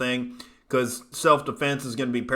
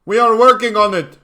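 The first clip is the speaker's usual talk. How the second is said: put-on much higher, much louder crude African accent; exaggerated African accent; 8 semitones higher, 11 dB louder than usual. Streamer repeating the line in a bigger fake African accent. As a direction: push the African accent even harder. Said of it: "Worst African accent ever".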